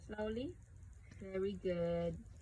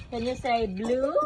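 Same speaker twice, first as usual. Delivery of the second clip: loud prompting; 12 dB louder than usual. Real, not acted. Parent prompting toddler to repeat.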